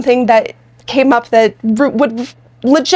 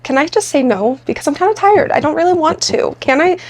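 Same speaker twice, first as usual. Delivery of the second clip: inner whine; 4 semitones higher than usual. Retold or imitated. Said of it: "internally I'm like".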